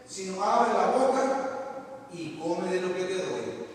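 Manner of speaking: solemn reading of Ezekiel, measured; scripture reading. Acted. Preacher reading Ezekiel chapter two aloud to the congregation, solemn. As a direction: read the prophet's words like holy scripture.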